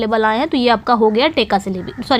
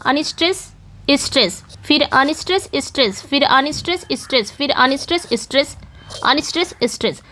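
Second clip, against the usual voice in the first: Unstress rising, stress falling, in a repeated pattern; iambic alternation. Shown as a demonstration. Teacher marking iambs along a poem line, alternating rise-and-fall count. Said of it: "अब इसमें मैंने क्या कर दिया".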